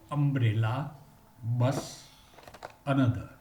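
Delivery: "umbrella, bus, another" with a short u, clearly separated; short u drill. Shown as a demonstration. Teacher modelling the short u for students, careful drill. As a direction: say each word with a clipped short u. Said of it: "Just we say".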